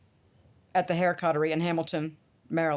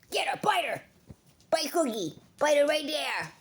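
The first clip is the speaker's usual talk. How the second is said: hushed, playful urging to the dog, a little higher; whispered egging on; 7 semitones higher, 3 dB quieter than usual. Real, not acted. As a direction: egg the dog on softly.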